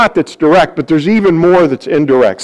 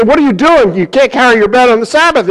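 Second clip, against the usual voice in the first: higher, fast indignant reproach; scolding crowd; 5 semitones higher, faster than usual. Acted. The people scolding the healed man carrying his bed, higher and indignant. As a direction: call him out for breaking the Sabbath.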